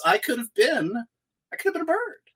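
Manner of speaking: mock wistful. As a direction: lament a lost calling, tongue in cheek. Mock regret over lost bird role.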